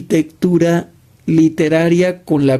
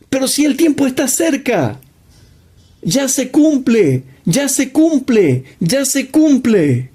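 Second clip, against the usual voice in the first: high, fast alarmist mockery; 7 semitones higher than usual. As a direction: parody the doomsayers' panic, pitched up. Continues mocking the alarmists. (burla aguda de los alarmistas)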